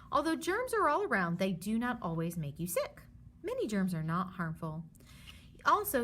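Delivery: lively storybook read for a class; reading to children. Acted. Teacher reads the germs book aloud to her students. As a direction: read it like a picture book to kids.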